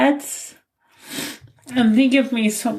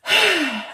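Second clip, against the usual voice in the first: shaky sigh; 6 semitones higher than usual. Real, not acted. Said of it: "I'm a mess".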